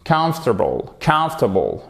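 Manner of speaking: "Comfortable" as KUMF-tuh-bul; correct comfortable. Shown as a demonstration. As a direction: hit the first syllable of "Comfortable", falling after. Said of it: "Reprenons donc ces deux-là".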